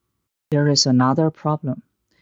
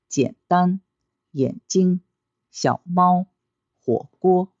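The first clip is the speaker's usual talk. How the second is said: 老师, 火车: first syllable low, second high and level; low, then high flat; 4 semitones higher than usual. Shown as a demonstration. Teacher drills third plus first tone, 手机 low then high flat. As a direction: read each word like 北京, low step then long high note. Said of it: "Then you read like this".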